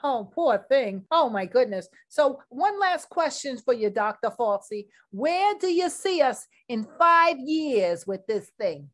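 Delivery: prim news interviewer signing off questions; news reporter voice. Acted. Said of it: "Miss Trudy Tirade".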